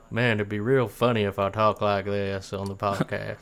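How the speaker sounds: drawled mock American accent; pretend American accent. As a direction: put on an American accent for a bit. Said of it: "just gonna pretend I was American".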